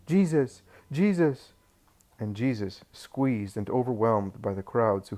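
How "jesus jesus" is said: high, loud desperate cry of a name; shouting for help. A narrator's reading. Old Eli crying out to Jesus in a crowd, high desperate shout. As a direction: call out in panic. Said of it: "does nothing but shout".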